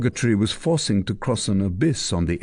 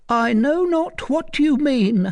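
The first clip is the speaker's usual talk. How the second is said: much higher, slow, feigned unconcern; forced indifference; 3 dB louder than usual. Acted. Frightened mother lying to soldiers, feigning indifference. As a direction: act as if nothing is wrong. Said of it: "assumed as indifferent an air as she could".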